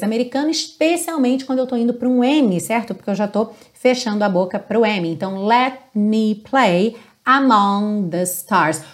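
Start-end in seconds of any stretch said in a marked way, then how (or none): 5.5-8.8 "among" with the final G dropped. Shown as a demonstration. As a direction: let the G of "among" fade away. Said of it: "O G também tem uma tendência a não aparecer".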